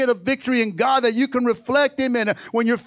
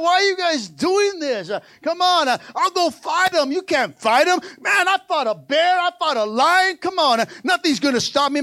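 high-pitched, fired-up defiance; defiant challenge; 4 semitones higher than usual. Acted. David scorning the chump who insults his God, high-pitched and defiant. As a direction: act out an indignant young fighter.

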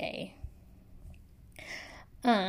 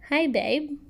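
gently read greeting; 5 semitones higher than usual. Shown as a demonstration. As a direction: start the letter tenderly, as the writer. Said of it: "Okay, so, yeah".

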